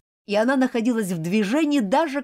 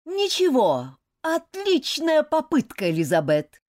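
higher encouraging shout; coach shouting; 7 semitones higher, 4 dB louder than usual. Acted. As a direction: call it across the field. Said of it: "крикнул мистер Уорлоу".

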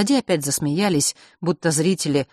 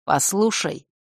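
slow; 3 semitones higher, slower than usual. Acted. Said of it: "медленно начал Марк".

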